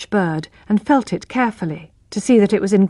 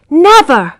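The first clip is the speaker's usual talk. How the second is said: loud, higher defiant refusal; 7 semitones higher, 7 dB louder than usual. Acted. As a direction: fling back a firm refusal. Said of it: "said Tess independently".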